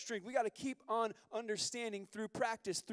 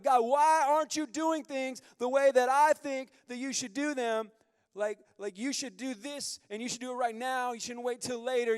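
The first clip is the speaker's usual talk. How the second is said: louder, higher, impatient demands; demanding of God; 6 semitones higher, 11 dB louder than usual. Pretend. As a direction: insist like a spoiled child. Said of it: "we're like".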